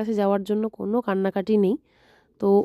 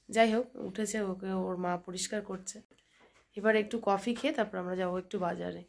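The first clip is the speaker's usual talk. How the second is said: hushed narration; 11 dB quieter than usual. Real, not acted. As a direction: narrate quietly so no one wakes. Quiet morning narration. (চাপা নরম গলায় সকালের বর্ণনা)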